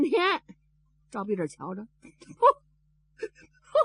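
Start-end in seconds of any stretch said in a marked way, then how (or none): 2.4-3.8 slow, high drawn-out wail; wailing for father. Acted. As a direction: wail my father at full length. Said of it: "他把他爸爸哭出来了".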